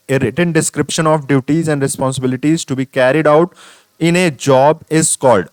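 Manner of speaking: each word read out slowly; slow question reading. Acted. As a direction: dictate the question to the class. Reads question aloud, very slow.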